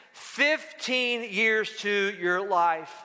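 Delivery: very slow, drawn-out words; slow pronouncement. Acted. Prophet delivering God's promise to Hezekiah, slow and deliberate. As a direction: let each word of the promise land.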